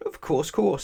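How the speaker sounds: high, smiling welcome. A narrator's reading. Twin offering a visitor water, smiling. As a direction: agree readily with a smile in the voice. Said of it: "smiled Little Miss Twin".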